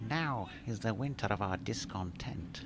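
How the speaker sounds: a lightly hammed, hushed theatrical recital; Shakespearean actor. Commentator reciting a listener's Shakespeare quote, hushed mock theatrical. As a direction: intone it softly like an old stage actor reading Richard the Third. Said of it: "Who are you doing there".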